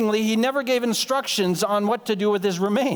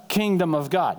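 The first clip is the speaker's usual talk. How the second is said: a slightly deeper, weightier voice; 3 semitones lower than usual. Shown as a demonstration. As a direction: say it a little deeper, with mock gravity. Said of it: "say it with a little deeper voice".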